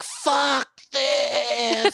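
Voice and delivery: quick high mock Irish accent; a dying granny swearing in an Irish accent. Granny's mock Irish last words, a hammed-up Irish accent. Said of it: "in an Irish accent".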